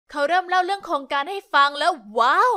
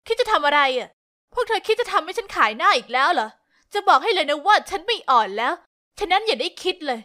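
louder, sharp angry cut-in; angry interruption; 4 dB louder than usual. Acted. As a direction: snap back at old classmates, furious. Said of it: "ฉันพูดแทรกขึ้นด้วยความโกรธ".

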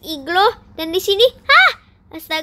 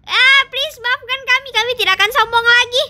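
pleading; 5 semitones higher than usual. Acted. Drowning ones beg for mercy.

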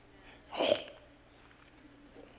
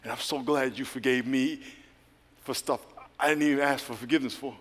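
sincere prayer; 4 semitones lower, 6 dB quieter than usual. Shown as a demonstration. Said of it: "Just say".

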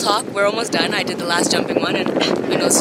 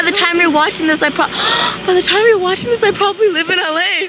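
mock sad; 9 semitones higher than usual. Mock lament leaving Canada.

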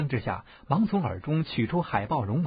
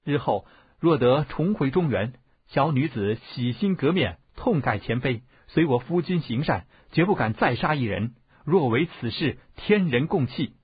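emphatic, slightly raised oath-taking voice; solemn oath; 4 dB louder than usual. A narrator's reading. Bride vowing to reform before heaven, solemn and emphatic. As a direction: swear it firmly, phrase by phrase.

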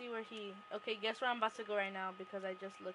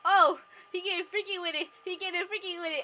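hyped shout; 6 semitones higher, 13 dB louder, faster than usual. Real, not acted. Hyped at friend's antics.

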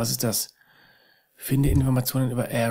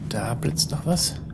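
whisper; 3 semitones higher, slower than usual. Real, not acted. Sneaking through dark asylum.

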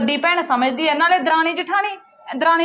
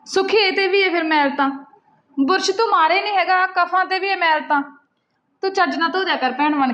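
raised voice; 5 semitones higher than usual. Acted. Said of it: "ਇੱਥੋਂ ਤੱਕ ਆਵਾਜ਼ ਆਉਂਦੀ ਸੀ ਮੇਰੀ".

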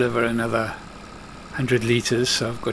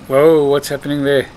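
surprised; 3 semitones higher, 7 dB louder than usual. Real, not acted. AI harvester veers off course.

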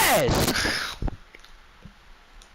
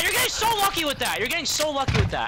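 real annoyed complaint; pissed off. Real, not acted. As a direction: complain in exasperation, repeating yourself. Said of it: "that's making me pissed off".

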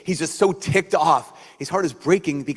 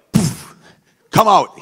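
loud, harsh call to come out; mock booming summons; 5 semitones higher, 9 dB louder, slower than usual. God forcing Adam out, a mocking loud summons. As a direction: bark it like an impatient god.

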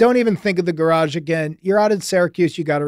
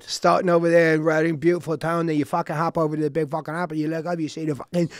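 bad English accent. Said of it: "just muddle the accent with a bunch".

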